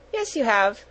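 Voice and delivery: mildly bright reassurance; cheerful. A narrator's reading. Older girl comforting a motherless child, cheerful. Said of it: "said Sarah cheerfully".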